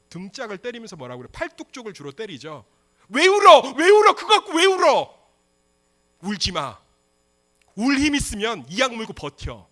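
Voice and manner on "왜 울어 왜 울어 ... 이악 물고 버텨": high, loud parental yell; scolding parent. Acted. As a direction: tell off a crying child at full volume. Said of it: "항상 부모가 뭐라고 그러죠?". (우는 아이를 큰 소리로 다그치는 부모)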